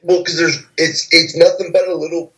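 talking while chewing food; words around a mouthful of food; mouth full. Real, not acted. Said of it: "I'm eating a fucking pepperoni cock right now".

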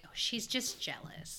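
whispered, dismissive mock quote. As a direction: breathe it out like a snide aside. Quoting the dismissive guy.

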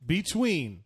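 very slow, drawn-out announcer call; fighting game announcer. Acted. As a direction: stretch each name like a versus screen. Dramatic choice between two sitcoms.

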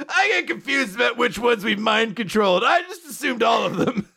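high-pitched mock-flustered protest; hammed-up excuse in a high voice; flustered outburst. Acts out Asta's flustered excuse.

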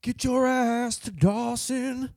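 very high, slow spirit voice; ghostly voice. Acted. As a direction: drag it out like a haunting ghost. Spirit voice warning Soapy.

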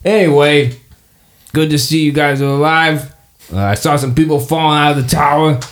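high cheerful cat voice greeting the party; Marvin the cat. Acted. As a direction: purr it out, pleased to see old friends. Marvin continues.

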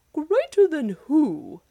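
slow, high and loud booming challenge; thundering giant. Acted. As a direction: thunder it down at the little man. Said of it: "thundered the giant".

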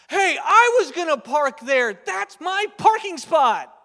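loud, high, slow huffy complaint; indignant driver. Retold or imitated. Adult driver arguing over a parking spot, loud mock indignation. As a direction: claim the spot like an offended toddler.

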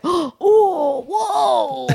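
stoner. Shown as a demonstration. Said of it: "You sound like a fucking stoner".

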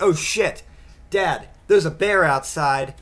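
hammed-up yell about a bear; panicked kid. Imagined son warning dad of a bear, mock panic.

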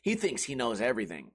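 lightly mock the haters; mocking critics. Critics calling him full of himself, lightly mocked sneer. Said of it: "and they say".

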